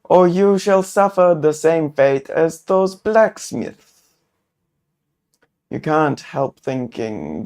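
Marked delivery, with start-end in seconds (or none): 0.0-4.1 louder, higher menacing warning; robed man threatening the traveler. Acted. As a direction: threaten them with dire fate. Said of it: "brandishes a gnarled staff threateningly".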